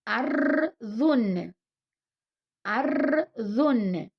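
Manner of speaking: أرض said slowly, final ض clear; slow model word. Shown as a demonstration. Teacher models أرض slowly for the class. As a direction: draw out أرض syllable by syllable. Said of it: "غنعاودو قراءة".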